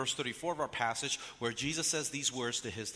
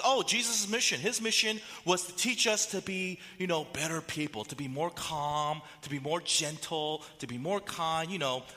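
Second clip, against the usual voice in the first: a hint of a naive Sunday school answer; mock naive churchgoer; 3 semitones higher than usual. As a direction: lightly play the average Christian, sweet and simple. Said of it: "The typical response might go something like this".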